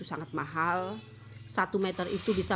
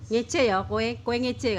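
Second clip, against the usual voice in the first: offended; 5 semitones higher, 4 dB louder, slower than usual. Retold or imitated. Friend offended in Javanese.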